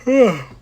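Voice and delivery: short loud sigh. Real, not acted. Tired streamer before checking the time, loud sigh. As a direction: let out a sudden high huff.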